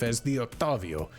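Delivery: lightly voiced pompous self-announcer; a hint of grandeur on "the Octavio"; grandiose character. Shown as a demonstration. Example of a character naming himself in third person, mildly grandiose. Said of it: "grandiose that they always refer to themselves".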